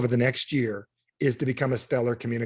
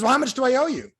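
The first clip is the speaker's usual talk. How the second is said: high-pitched client; 10 semitones higher, 3 dB louder than usual. Retold or imitated. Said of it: "He goes".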